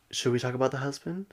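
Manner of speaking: soft, stretched-out imitation in a weird accent; put-on odd accent with lingering, swooping vowels; Meredith's drawn-out delivery. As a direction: draw out the last word, mockingly. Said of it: "draws it out".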